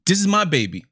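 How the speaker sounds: mock-protective monkey mom guarding her baby; a hint of a fretful monkey mother. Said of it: "The little monkey was like".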